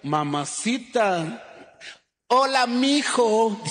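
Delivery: coqueteo lento y arrastrado que sube al final; muchacha coqueta. Retold or imitated. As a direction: estira las palabras, coqueteando. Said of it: "a la mañosa, cuando un hombre le habla". (la muchacha mañosa responde al piropo con coqueteo lento)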